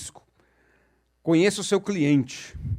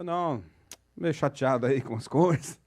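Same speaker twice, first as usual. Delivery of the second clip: mildly downcast, softer reply; feigned sadness; 3 semitones lower, 3 dB quieter than usual. Retold or imitated. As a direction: play a little dejected to worry the listener. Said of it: "meio triste, com aquela cara de triste". (levemente tristonho, fingindo desânimo)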